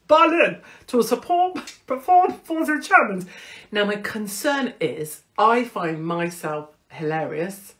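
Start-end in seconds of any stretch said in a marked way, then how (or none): 0.1-3.3 high, loud giggly excitement; bubbling over about the trip; giddy excitement. Real, not acted. Telling fans about the Berlin gig, high giddy laugh.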